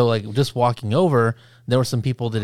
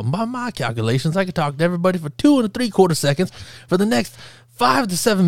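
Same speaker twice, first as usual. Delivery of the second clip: put-on Southern accent; 5 semitones higher than usual. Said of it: "why does he sound like Foghorn Leghorn".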